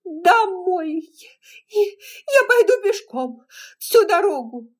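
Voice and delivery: high, loud, slow wailing through tears; sobbing cries. A narrator's reading. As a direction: cry out while beating his chest. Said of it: "вскрикивая снова и снова".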